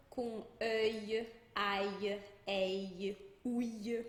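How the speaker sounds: "œil, aille, ouille" one by one, each ending in a Y glide; L como I. Shown as a demonstration. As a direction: say "ouille" and the other endings with a short I for L. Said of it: "o L com som de I". ("œil, aille, ouille" pausados, L soando I)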